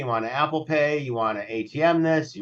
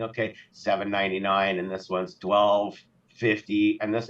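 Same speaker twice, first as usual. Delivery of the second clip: tot up prices in your head aloud, lightly voiced; a hint of a careful shopper adding up prices; counting prices; 4 semitones lower than usual. Mentally tallying prices while shopping.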